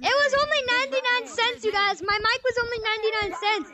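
put-on eager little kid with a trashy mic; toy echo microphone. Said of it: "a kid who just has his dollar store mic".

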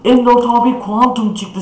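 scratchy, worn-out excited voice; hoarse voice. Real, not acted. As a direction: voice gone hoarse from yelling. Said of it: "Sesim kısıldı be".

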